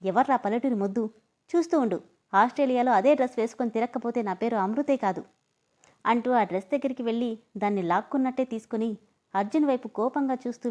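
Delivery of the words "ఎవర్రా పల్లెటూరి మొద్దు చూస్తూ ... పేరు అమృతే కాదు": indignant. Acted. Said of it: "ఉక్రోషం వచ్చేసి".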